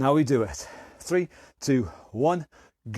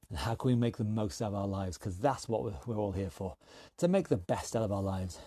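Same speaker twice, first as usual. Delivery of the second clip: quiet reflection; 7 semitones lower, 7 dB quieter than usual. Real, not acted. Reflective close of fitness talk.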